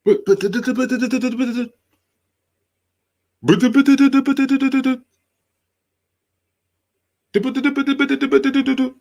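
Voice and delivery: high-pitched frantic sputtering; machine-gun stammer, syllables tumbling out; mock someone racing to get words out; rapid-fire babble. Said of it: "deliver their words as fast as possible".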